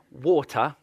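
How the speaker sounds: "Water" said the English way, crisp t; trying a proper English "Water". Shown as a demonstration. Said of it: "we can say the English way today".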